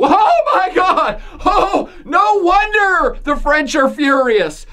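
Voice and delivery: mock French indignation, laughing into it; ironic mock outrage. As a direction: ham up disbelief to mock the French. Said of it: "Are you picking up the irony in my voice here?".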